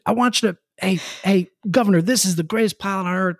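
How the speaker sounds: imitating the president. President introduces pilot to governor.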